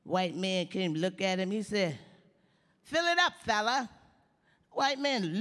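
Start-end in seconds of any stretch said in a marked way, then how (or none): 2.8-3.9 a sudden high, loud order to the attendant; cocky order. Retold or imitated. Driver ordering the attendant with a high, loud swagger. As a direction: toss it off like a big shot. Customer orders at gas station.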